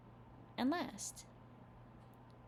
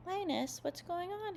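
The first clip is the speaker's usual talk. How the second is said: high worried call; Charlie Brown voice; 10 semitones higher than usual. A narrator's reading. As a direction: ask with sudden alarm. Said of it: "he asked".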